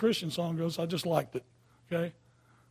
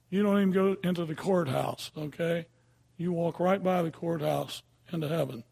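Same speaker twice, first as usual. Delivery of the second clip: ordinary delivery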